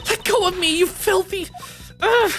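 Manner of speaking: high, furious protest; struggling angrily; angry struggle. Acted. Kay struggles against captor.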